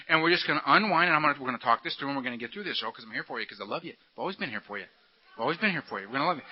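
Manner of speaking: low voice softening into sweet reassurance; coaxing beast, tender. Acted. The beast promising Earl it is there for him, low and tender. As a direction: lull them softly, like a devoted friend.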